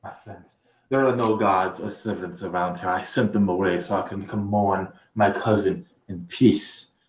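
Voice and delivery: low, soft reassurance to intruders; hushed confiding. Acted. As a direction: confide it quietly, voice dropped. Vizier answers call to be quiet.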